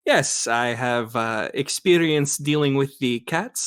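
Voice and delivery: put-on slow, hesitant German accent; German Shepherd's German accent. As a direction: answer slowly in a German accent. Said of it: "trying to speak as this character".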